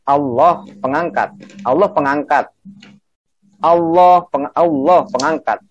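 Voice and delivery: ALLAH set apart, pengangkat falling; intonasi jelas. Shown as a demonstration. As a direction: demonstrate ALLAH, then pengangkat as predicate. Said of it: "Intonasi harus jelas ya". (intonasi jelas, tekankan ALLAH)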